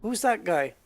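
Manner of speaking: slow, oddly stressed actor impression; slow mimicry with swooping stresses; Christopher Walken. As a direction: imitate a film star's halting cadence. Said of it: "He talks like".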